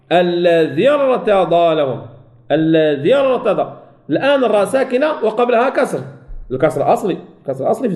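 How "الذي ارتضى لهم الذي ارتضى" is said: الذي ارتضى slowly, dhal joined straight to a thick r; joined heavy ra. Shown as a demonstration. Teacher showing the linking to students, slow الذي ارتضى with heavy ra. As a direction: drop the long ya of الذي into the ra of ارتضى. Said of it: "مباشرة مع الراء".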